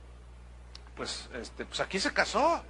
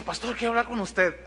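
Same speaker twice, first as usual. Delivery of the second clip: with a smile; 4 semitones higher than usual. Retold or imitated. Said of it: "así con una sonrisa".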